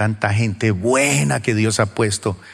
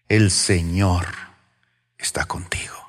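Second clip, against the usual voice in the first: hushed; 5 semitones lower than usual. Acted. Quoting the angel's message.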